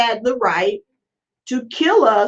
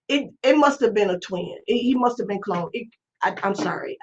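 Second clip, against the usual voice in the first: fading murmur; 4 semitones lower, 5 dB quieter than usual. Real, not acted. Trailing off, overwhelmed.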